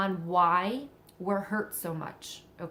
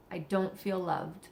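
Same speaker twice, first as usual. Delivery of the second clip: slow, softer repeat of the hurt; quiet echo; 5 dB quieter than usual. Pretend. Speaker repeats the insecurity to herself, slow and soft. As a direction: let it sink in, quietly and slowly.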